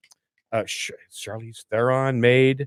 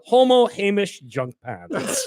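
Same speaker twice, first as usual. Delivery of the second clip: put-on Scottish accent; 8 semitones higher, slower than usual. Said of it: "Hobo voices".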